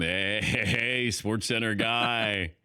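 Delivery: lightly imitated fan hail; slow, stretched-out heys of vague recognition; fan greeting. Fan greeting a half-remembered TV host, drawn-out hail.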